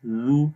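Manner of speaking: "زو" with a soft tongue-tip z against the teeth; soft zaal demo. Shown as a demonstration. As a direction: say "زو" gently, not harsh. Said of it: "زال کو نرم پڑھتے ہیں".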